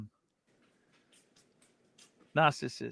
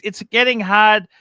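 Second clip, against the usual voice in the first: lightly whiny host voice, louder; higher, insistent mock plea; mock pleading; 6 semitones higher, 8 dB louder than usual. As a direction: nag a little in his voice. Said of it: "He goes".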